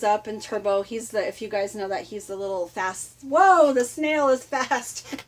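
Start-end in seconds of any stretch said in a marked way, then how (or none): 3.2-5.2 amazed whoa. Retold or imitated. Surprise at the fast snail.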